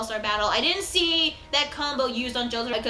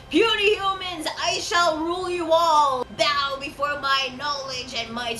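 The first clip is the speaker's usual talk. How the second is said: evil speech. Retold or imitated. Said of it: "like, evil little speech".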